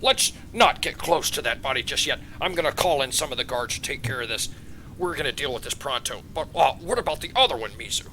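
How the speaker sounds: halting, impressed, proud royal voice; doting father king. Acted. King thanking Jasmine and praising his daughter, proud. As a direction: praise them as a pleased, slightly stunned ruler.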